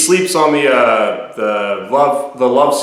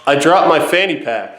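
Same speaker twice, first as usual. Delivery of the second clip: said again louder for a listener who missed it; clearer, louder second try; louder repeat; 3 semitones higher than usual. Real, not acted. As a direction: repeat it so they can hear.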